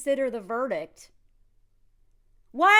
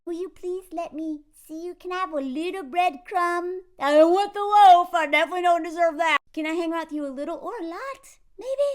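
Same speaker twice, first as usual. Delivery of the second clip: hammed-up pleading, pitched up; mock begging; 4 semitones higher, 7 dB louder than usual. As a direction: parody a pathetic plea for scraps. Mimicking a needy plea.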